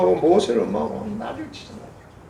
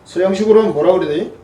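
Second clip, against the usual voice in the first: normal talking voice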